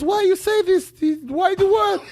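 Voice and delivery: high, incredulous, half laughing; the stunned doctor asks why; shocked doctor. Acted. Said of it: "he's shocked".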